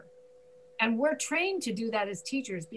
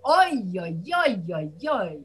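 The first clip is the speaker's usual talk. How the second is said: Jewish oy; 3 semitones lower, 6 dB louder than usual. Retold or imitated. Teacher demoing a Jewish exclamation of woe. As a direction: lament "Oy, oy, oy" with a wailing lift. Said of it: "Jews will say".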